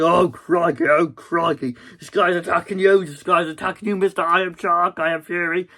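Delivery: put-on old man friend bursting in and crying out; old man alarmed. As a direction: blurt it out like a startled old man. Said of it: "he's like".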